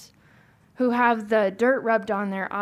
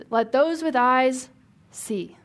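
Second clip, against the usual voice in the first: prophetic pronouncement; 3 semitones higher, slower than usual. Retold or imitated.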